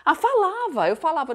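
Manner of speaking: "Ah, falava" flung out high and loud; defensive wife insisting she told him; indignant retort. Retold or imitated. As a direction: protest that she did say it.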